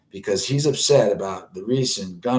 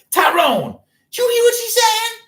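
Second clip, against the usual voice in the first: very high, loud squeaky call; calling Tyrone; 7 dB louder than usual. Retold or imitated. Coworker calling out to Tyrone in a high squeal. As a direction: shriek across the store for Tyrone. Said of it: "I'd be like".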